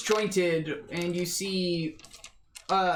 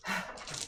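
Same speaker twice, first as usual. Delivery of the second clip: raspy creature breath; 10 dB quieter than usual. Acted. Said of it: "like it was taking a breath".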